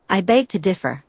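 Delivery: lightly put-on bad New York accent; a hint of a hammy New York accent. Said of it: "said in a bad New York accent".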